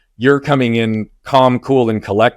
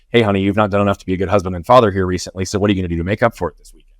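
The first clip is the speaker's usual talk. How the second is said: accusing wife; much faster than usual. Retold or imitated. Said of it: "my shame filter caused me to hear".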